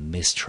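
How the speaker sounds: "mystery" with the weight on MYS, the rest light; teacher repeating the word to show where the stress falls; stress on first syllable. Shown as a demonstration. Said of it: "它的重音节呢，我们就落在第一个音节".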